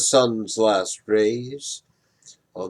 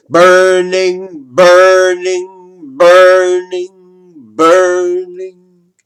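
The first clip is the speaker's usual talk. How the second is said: loud, higher, long falling burning; intoned cry; 6 semitones higher, 11 dB louder, much slower than usual. Acted. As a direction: chant each burning like a sermon. Climactic chant of burning.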